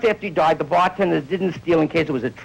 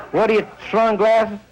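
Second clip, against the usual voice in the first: South Philly slur; 5 semitones higher than usual. Retold or imitated. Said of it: "the most insulting thing in the world to South Philly".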